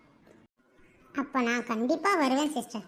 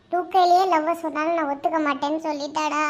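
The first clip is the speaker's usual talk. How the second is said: tearful wail; 5 dB louder than usual. Acted. Lovesick man telling his friend of rejection, tearful wail. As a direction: lament breaking into a loud wail. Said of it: "ஏன்டா இப்படி அழுவுற".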